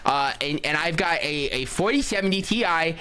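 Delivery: lightly put-on podcaster impression; Steven. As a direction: mildly mimic a guy explaining his laptop. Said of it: "that's my impression that I could do".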